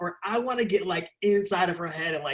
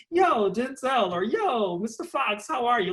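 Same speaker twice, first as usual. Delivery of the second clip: put-on New York accent; 4 semitones higher than usual. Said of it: "it's a little higher in that New York accent".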